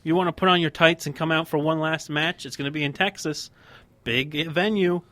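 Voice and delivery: lightly acted begging of a retired star; mock coaxing plea. Podcast host pretends to talk Ric Flair out of retirement, coaxing. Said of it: "You're gonna have Ric Flair".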